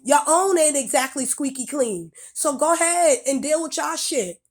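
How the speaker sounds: sharp scolding rant; angry rant. Real, not acted. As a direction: tell them off, fed up. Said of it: "That's why I spoke angrily".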